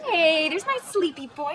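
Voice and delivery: slow, doting coo; cooing pet talk. Acted. Girlfriend greeting her napping boyfriend like a cat, cooing. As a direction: greet him like a beloved pet. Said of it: "treating Perry like he's her cat".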